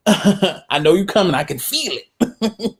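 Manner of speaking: teasing through laughter; laughing tease at the co-host. Real, not acted. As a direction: chuckle it knowingly.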